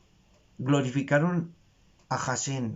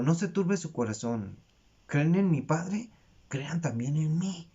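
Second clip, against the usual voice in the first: special personal rendering; 2 semitones higher than usual. Shown as a demonstration. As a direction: say it gently and directly to the listeners, easing off at the end. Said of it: "de una manera muy especial".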